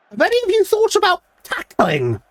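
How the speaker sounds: high, shrill-pitched mock outrage at the team; incredulous high-pitched rant at defenders; exasperated shriek. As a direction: squeal it up high in disbelief. Furious manager yelling at players.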